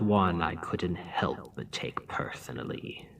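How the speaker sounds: whisper. Acted. Villain wounded by rejected marriage.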